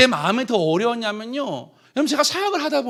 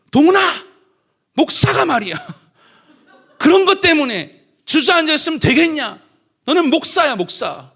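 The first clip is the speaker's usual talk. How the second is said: higher, louder scolding voice of God; stern divine rebuke; 7 semitones higher, 6 dB louder than usual. Retold or imitated. God rebuking the discouraged pastor, higher and louder. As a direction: shake him awake like a stern father.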